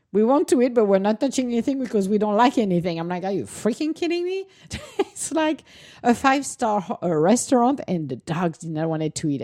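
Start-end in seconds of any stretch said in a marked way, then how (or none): 0.1-3.0 mock whiny dogs. Voicing her picky dogs to their owner, high and quick. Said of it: "they were looking at me like". 3.2-4.5 squeaked way up in outrage; high incredulous groan at the dogs; exasperated disbelief. Retold or imitated. Owner to dogs who won't eat, high exasperated disbelief. 4.7-7.0 high laughing exasperation. Real, not acted. Telling viewers about the fancy food, laughing.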